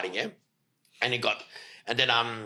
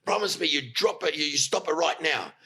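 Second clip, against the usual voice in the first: raised-pitch retold order; imitated telling-off; 4 semitones higher than usual. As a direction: act out a boss demanding it from everyone. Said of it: "giving it to all of us".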